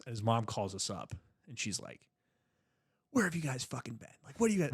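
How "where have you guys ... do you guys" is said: high scolding mom voice; angry mom. Retold or imitated.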